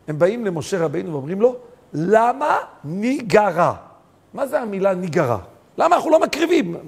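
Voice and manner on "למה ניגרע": slow, deliberate quote; drawn-out question. Acted. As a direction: stretch out every syllable of the question. Quoting the plea slowly. (שאלה איטית ומתמשכת)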